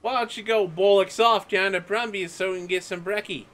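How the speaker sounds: high, hammed-up Aussie banter; fake Australian accent. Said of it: "pretend to be Australian".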